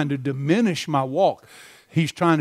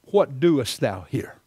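God's question. Retold or imitated. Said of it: "he asked him the second time".

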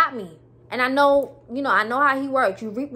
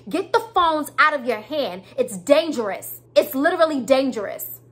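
scolding rant; 2 semitones higher than usual. Real, not acted. Telling viewers to put their phones down, raised and scolding. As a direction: preach it hard at the people texting behind the wheel. Lecturing drivers about phones.

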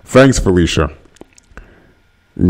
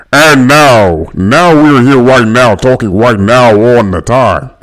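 projecting voice; 2 semitones higher, slower than usual. Shown as a demonstration. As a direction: push the voice out like on a stage. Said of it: "Let me see if I can project a little bit".

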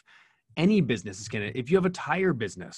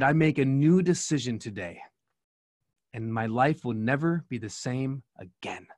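lightly imitated Japanese-accented English, slowing toward the end; a hint of Japanese accent, very serious and deliberate; broken English accent. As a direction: quote her solemnly in gentle broken English with a Japanese accent. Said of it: "beautiful broken English accent".

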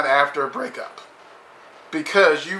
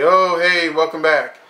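mock welcome; 3 semitones higher, 6 dB louder than usual. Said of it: "and say".

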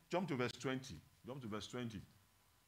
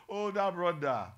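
loud, raised-pitch teasing call; 4 semitones higher, 8 dB louder than usual. Shown as a demonstration. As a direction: call out the title playfully, loud. Calls out title amid laughter.

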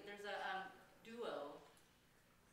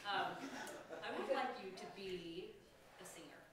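laughing. Real, not acted. Laughing while teasing student.

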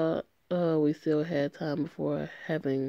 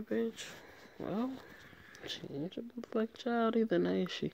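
sassy retort; 6 semitones higher, 7 dB quieter than usual. Real, not acted. Streamer sasses the character.

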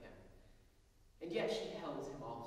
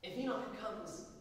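higher, louder frightened pleading; scared plea; 9 semitones higher, 4 dB louder than usual. A narrator's reading. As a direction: beg him in alarm to wait. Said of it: "scared as it were".

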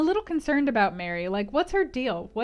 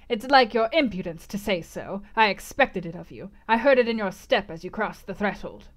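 lightly voiced crone, a bit louder and scornful; mock-scolding gypsy; gypsy fortune-teller; 3 dB louder than usual.

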